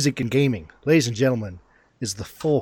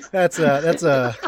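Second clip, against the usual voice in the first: put-on failed Russian accent; 5 semitones higher, 5 dB louder, faster than usual. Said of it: "that's a Russian that's been in New York".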